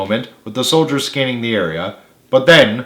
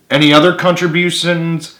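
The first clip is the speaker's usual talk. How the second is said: menacing; 6 semitones higher than usual. A narrator's reading. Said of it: "asked Henderson menacingly".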